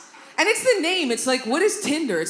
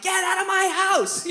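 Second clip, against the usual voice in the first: retold yell; 10 semitones higher, 3 dB louder than usual. Yelling at the rat downstairs.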